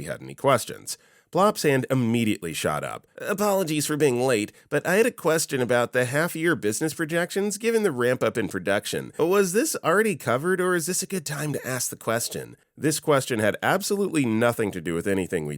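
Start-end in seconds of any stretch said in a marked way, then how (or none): 3.2-12.5 prim nasal boss. Retold or imitated. Plops voiced asking question.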